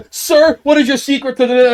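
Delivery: high, eager question; eager reporter. Acted. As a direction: lean in like a fawning journalist. Interviewer asking success secret.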